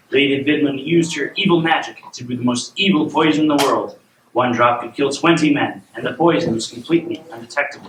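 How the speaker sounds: measured storybook reading; storyteller setting up a royal tale; bedtime story narration. A narrator's reading. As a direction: read a fairy tale aloud to a child.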